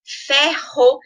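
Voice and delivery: "Ferro" in two syllables: fer, ro; separado em sílabas. Shown as a demonstration. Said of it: "nós temos que separar". ("Ferro" silabado, fer-ro)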